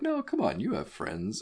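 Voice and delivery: high-pitched start dropping into coaxing; unconvincing, over-sweet comforting; fake reassurance. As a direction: pretend to cheer someone up. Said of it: "make you feel better in a fake way".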